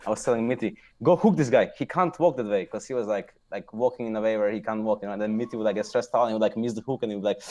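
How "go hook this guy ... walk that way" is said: louder, higher urgent call; mock shot-call. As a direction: bark the order like mid-game. Retold in-game shot-calling.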